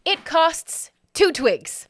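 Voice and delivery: high, loud, drawn-out goblin voice; slow, emphatic creature pronouncement; goblin naming price. Acted. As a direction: announce the price slowly as a goblin vendor. Goblin vendor names the price.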